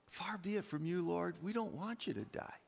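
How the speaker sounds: softly voiced aside; Peter's private protest. Peter pulls Jesus aside to object, hushed mild protest. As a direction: take him aside and plead it gently, under full voice. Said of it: "Peter pulls him aside and said".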